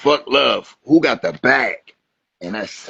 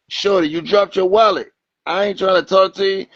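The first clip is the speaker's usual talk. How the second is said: mock exasperated guy; 9 semitones higher than usual. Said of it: "He like".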